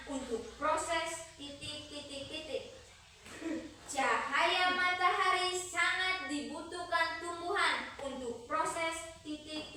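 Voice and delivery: dictating. Acted. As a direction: read it out for the class to write. Reads quiz question aloud.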